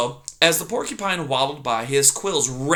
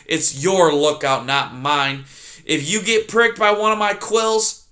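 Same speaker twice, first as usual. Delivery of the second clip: snarling; 2 semitones higher than usual. Acted. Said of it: "He snarled".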